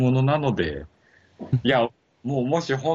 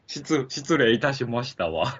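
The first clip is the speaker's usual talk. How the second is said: posh lady speech; slower than usual. Pretend. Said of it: "お上品スイッチ".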